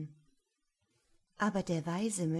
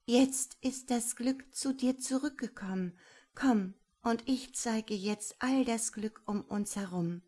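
joyful call; 4 semitones higher than usual. Acted. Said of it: "lachte Shanti und rief".

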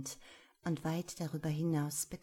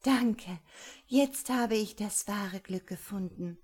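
joyful thanks; 3 semitones higher, 4 dB louder than usual. Acted.

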